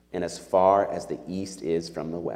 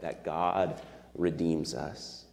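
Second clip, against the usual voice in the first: slower and softer, letting it sink in; slow hushed truth; 6 dB quieter, slower than usual. Shown as a demonstration. Preacher to congregation, slow and softly reassuring. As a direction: lay it down gently for them to sit with.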